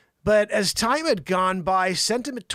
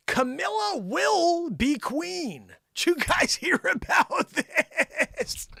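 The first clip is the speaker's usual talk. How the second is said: high, drawn-out wail of astonishment; mock-shocked announcement; 10 semitones higher, much slower than usual. Host breaking big royal news to listeners, mock shock. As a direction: stretch it out high in hammed-up amazement.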